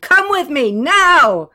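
high, very loud shout; full-voiced urgent yell; screamed command. A narrator's reading. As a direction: demand she follow, blasting the last word. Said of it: "Renee screamed".

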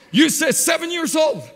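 put-on a child's prayer built to a loud shout; loud storming prayer. A seven-year-old boy loudly prays to God for training wheels. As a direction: pray it up a storm, loud and fervent. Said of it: "he was praying up a storm".

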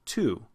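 "to" said alone as "too"; full oo vowel. Shown as a demonstration. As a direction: give "to" a full oo as in pool. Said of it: "When I say it on its own, it's oo".

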